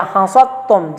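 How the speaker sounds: hasattum, slow, with a doubled t; correct reading. Shown as a demonstration. Teacher repeats the right form, hasattum. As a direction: slowly say hasattum with the tt held. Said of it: "jangan hasadetum".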